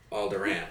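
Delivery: "Alderaan" ending like "ran"; short A as in "cat" ending "Alderaan"; ANN ending. Shown as a demonstration. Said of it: "Also wrong".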